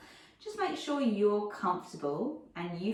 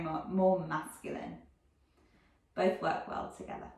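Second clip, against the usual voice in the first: calm meditation guide with long pauses; guided meditation. Real, not acted. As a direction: gently lead listeners inward, leaving silence between phrases.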